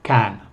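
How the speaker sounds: "Can" with a full open vowel; strong-form "Can", clear a sound. Shown as a demonstration. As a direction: say "Can" full and firm, unreduced. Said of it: "pronunciar can más fuerte".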